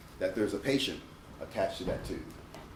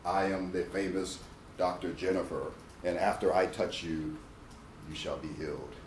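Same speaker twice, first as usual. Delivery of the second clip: lower, slow, pompous proclamation; grandiose doctor; 6 semitones lower, slower than usual. Pretend. Dentist mocking the arrogant doctor promising a cure, pompous. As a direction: play the all-powerful healer. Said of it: "it's when you say".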